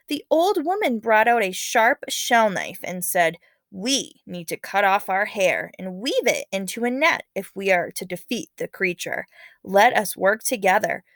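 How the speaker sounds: lively read-aloud narration voice; story narration. A narrator's reading. Teacher reading a legend to students, expressive narration.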